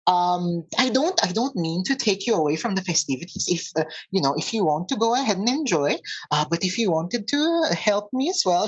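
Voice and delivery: strained cheer, lightly acted; forced smile. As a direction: politely ask for help while hiding worry. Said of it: "forcing a smile and saying".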